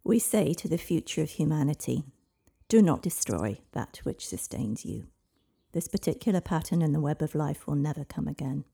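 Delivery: a lightly otherworldly prophetic voice; dragon voice. Acted. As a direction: speak as an ancient dragon through the child. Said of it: "It was not her usual voice".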